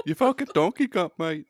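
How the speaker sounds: hammed-up Australian insult with a laugh; imitated Australian accent. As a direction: jokingly rib someone in an Australian accent. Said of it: "they're all Australian".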